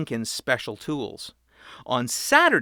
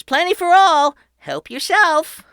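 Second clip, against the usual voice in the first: grand welcome; 10 dB louder than usual. A narrator's reading. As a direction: draw it out like a ringmaster. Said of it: "he said".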